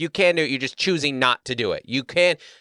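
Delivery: mock condescending, talking down, openly annoyed. Retelling an argument at an airport lounge desk: imitating an irritated condescending man. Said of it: "irritated and, like, kinda, like, condescending way".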